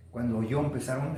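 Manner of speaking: ordinary talk, nothing marked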